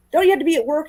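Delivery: lightly voiced grumpy father; a hint of a stern dad, questioning. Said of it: "Martin Lawrence is grumpy".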